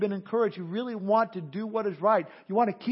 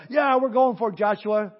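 worked-up cheer; 5 dB louder than usual. Retold or imitated. The men cheering Joshua on, worked up and loud. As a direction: pump the crowd up. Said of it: "they're all worked up".

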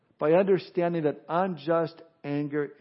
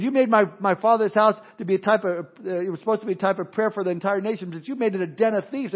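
raised, heated rebuke; angry Jesus; 3 semitones higher than usual. Retold or imitated. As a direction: scold them like an outraged Jesus in the temple. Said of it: "he was ticked off".

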